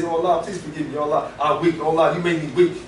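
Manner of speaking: lightly acted plea, pitched a little down; a touch of tearful supplication; pleading cry to God. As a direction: plead for forgiveness, understated. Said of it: "Cry to him and say".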